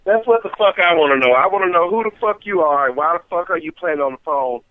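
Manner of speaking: furious shouting down the phone; angry yelling. Real, not acted. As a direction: yell it, furious.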